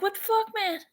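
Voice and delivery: high, loud exasperated rant at the prices; half-mock outrage at the shelf; exasperated outburst. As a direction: complain loudly in disbelief. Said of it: "I'm like".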